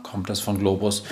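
usual speaking voice

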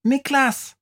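high squeaky mouse shouting his name; mouse calls out. Acted. Mouse shouting to wake the sleeping boy, high call. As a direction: call him, high and sharp like a tiny mouse. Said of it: "ruft die Maus".

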